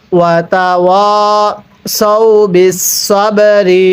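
slow tilawat, drawn-out vowels; melodic recitation. Shown as a demonstration. Teacher recites the phrase for students in melodic tilawat. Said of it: "কিভাবে পড়তে হবে?".

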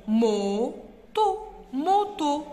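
teacher repeating the word; word said twice. Shown as a demonstration. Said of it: "le mot moto".

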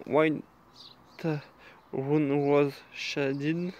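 variety names read slowly in a self-conscious English accent; careful slow French-speaker's English accent. Real, not acted. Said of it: "Excusez-moi pour mon accent anglais".

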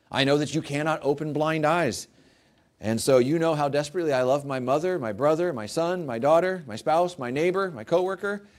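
mock prayer. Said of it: "How would you pray to God".

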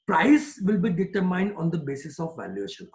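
each word spaced out slowly for note-taking; slow dictation. Shown as a demonstration. Teacher to class, dictating a definition slowly.

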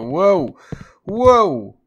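startled loud whoa; surprised whoa. Real, not acted. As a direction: blurt out in real shock. Sudden fast ride up stairs.

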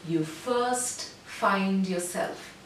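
"you first find yourself" very slowly. Shown as a demonstration. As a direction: end on a slow note.

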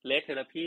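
Red Therapy spelled out slowly, word by word; slow careful English. Shown as a demonstration. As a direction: say Red Therapy slowly like teaching a kid to read. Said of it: "ไหนพูดตามสิ". (อ่าน Red Therapy ช้าๆ ชัดๆ แบบสอนอ่าน)

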